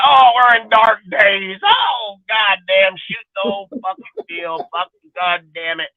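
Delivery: drawn-out whiny mock lament; mock crying. Fan mocking whiners about a losing season, hammed-up crying. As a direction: wail it in exaggerated despair, then sink. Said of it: "you ain't hear me fucking crying like a bitch".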